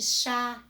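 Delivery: chá with a clearly open á; open vowel. Shown as a demonstration. Teacher showing pupils the acute accent, open vowel. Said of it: "me traz um som aberto".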